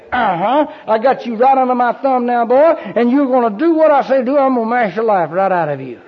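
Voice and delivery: a hint of a gloating bully God; mock tyrant God. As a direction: sneer like a bully with someone under his thumb. Imagined tyrant God speaking.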